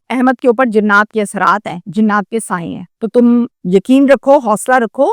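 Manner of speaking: retold low, steady reassurance; reassuring. Husband tells wife to have faith and courage, reassuring. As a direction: drop low to calm the wife, lightly acted.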